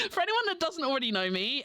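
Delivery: nervous shaky voice; shaky with nerves; adrenaline shakes. Real, not acted. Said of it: "I'm a nervous wreck".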